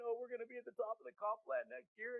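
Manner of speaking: high, gushing conference high; mock excited attendee. Attendee gushing to their team, hammed-up excitement. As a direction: imitate a fired-up attendee leaving the event. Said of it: "You're excited".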